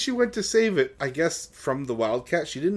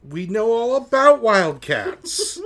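mock boast; 11 semitones higher, 9 dB louder, slower than usual. Mock boast, loud and slow.

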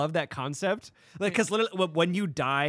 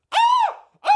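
mock scared screams; 11 dB louder than usual. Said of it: "all they heard was me going".

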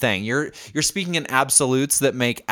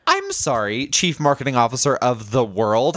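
sarcastic. Acted. Mock apology.

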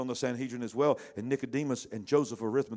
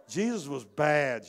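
"bad" drawn out slow and louder; stress on bad; 4 semitones higher, 6 dB louder, slower than usual. Real, not acted. Preacher to the congregation, hitting "bad" slowly. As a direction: lean hard on "bad" to land the slang. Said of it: "Bad in a good way".

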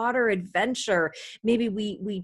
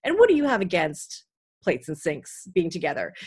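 sideline reporter; 4 dB louder than usual. Shown as a demonstration. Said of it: "a sideline interview".

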